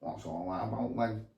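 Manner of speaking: light Manc accent on request; Manchester accent. Shown as a demonstration. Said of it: "Can you do the Manc accent?".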